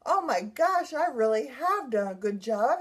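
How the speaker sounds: re-live a delighted revelation; amazed realization. Retold or imitated. Survivor realizing how well she has done, amazed. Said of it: "that threw me completely off my pea pod".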